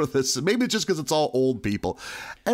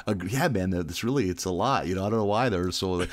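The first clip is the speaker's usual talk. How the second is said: chummy salesman; 8 semitones lower than usual. Retold or imitated. Salesman buddying up, retold.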